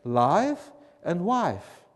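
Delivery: drawn-out Southern vowels on life and wife; stretched Southern drawl; Southern accent. Shown as a demonstration. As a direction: say it slowly like a Southerner. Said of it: "in the South, we say".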